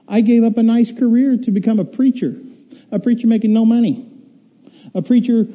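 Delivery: mock indignation. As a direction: plead your case with acted grievance. Defending his sacrifice to God.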